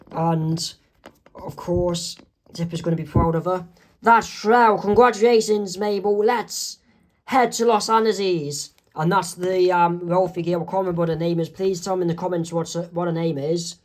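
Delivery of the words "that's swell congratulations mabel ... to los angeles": cheerful congratulations. Acted. Dipper congratulates Mabel.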